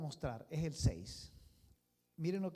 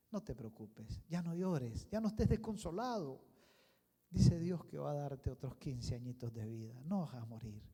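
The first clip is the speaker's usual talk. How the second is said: comforting; 3 semitones lower than usual. Acted. Prophet comforting weeping Hezekiah.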